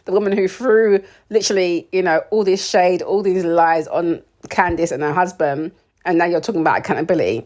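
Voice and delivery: mock indignant callout; sarcastic retort. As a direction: call out the hypocrisy. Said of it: "I'm like".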